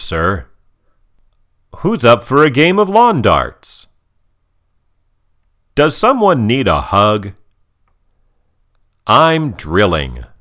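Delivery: swooping, emphatic sitcom-dad lines; Norm. Acted. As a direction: play a mildly hammed-up cheery dad. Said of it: "here are Norm's other lines".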